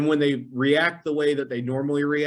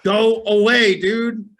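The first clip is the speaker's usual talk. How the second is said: high, louder snapping voice; mock annoyed; 10 semitones higher, 7 dB louder, much slower than usual. Narrator retelling telling the roommate to leave, high and louder. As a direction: push him off, irritated.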